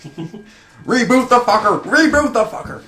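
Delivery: high, loud, slow bellow; frantic shout. Acted. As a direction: yell the command in panic. Yelling to reboot robot.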